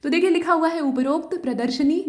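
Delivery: ordinary delivery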